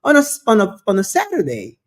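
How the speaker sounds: high, fast mock accusation; accusing him. Women accusing the guest of shopping on Saturday, high and fast. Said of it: "they said".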